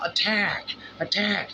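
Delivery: high shouted alarm call; yelled warning. Acted. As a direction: yell it as a warning. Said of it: "no one's going to yell".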